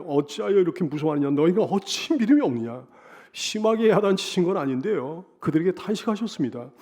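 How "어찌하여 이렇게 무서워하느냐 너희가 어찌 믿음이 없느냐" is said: sighing lament. Retold or imitated. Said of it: "주님이 탄식하시는 거예요".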